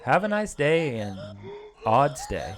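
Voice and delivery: stumbling, laughing at the mix-up. Real, not acted. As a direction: giggle through the jumble. Jumbling the phrase, laughing.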